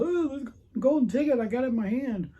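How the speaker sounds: high, gleeful imitated cry; mock elation. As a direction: crow like a movie prize winner. Acting out golden ticket winners.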